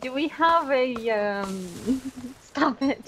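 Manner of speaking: fighting off the giggles; laughing. Real, not acted. Giggle fit mid-question.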